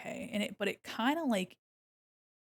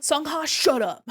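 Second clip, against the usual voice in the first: loud scolding; 6 semitones higher, 8 dB louder, slower than usual. Acted. Telling fictional child off.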